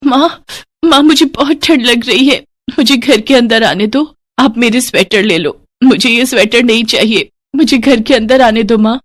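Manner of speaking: put-on a small girl shut out in the cold; pleading little girl. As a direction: daughter begging stepmother to let her in, pleading.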